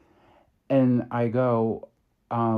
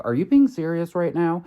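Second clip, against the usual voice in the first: higher, louder disbelieving question; incredulous; 7 semitones higher, 5 dB louder, faster than usual. Retold or imitated. Partner challenging a dismissive store clerk, incredulous. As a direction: imitate a partner's raised-voice disbelief.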